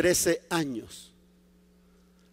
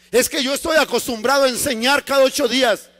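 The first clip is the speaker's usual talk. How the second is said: higher, insistent objection; Paul protesting; 4 semitones higher, 3 dB louder, faster than usual. Acted. Paul objects to the Lord's delay, insistent protest. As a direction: protest as an eager, impatient Paul.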